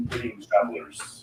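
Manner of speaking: an ancient dragon greeting travelers; deep dragon voice. Acted. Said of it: "you hear a deep voice".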